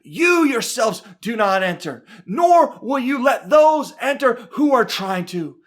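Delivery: deliberate scolding, stressing each accusation; mildly heated telling-off of religious leaders; preacher voicing a stern confrontation; scolding rebuke. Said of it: "he is right up in their faces".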